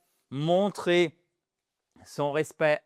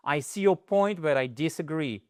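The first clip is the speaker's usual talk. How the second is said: polite disagreement. Shown as a demonstration. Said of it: "on montre son respect".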